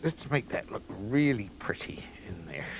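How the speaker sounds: a hushed murmur over the plate; whispered aside. Real, not acted. Cook arranging salmon on plate, whispering. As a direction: whisper it to yourself while arranging.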